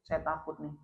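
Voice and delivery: a touch of weeping worry, acted; imitated tearful fear. Umar prays over growing wealth, mildly tearful fear. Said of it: "dia nangis".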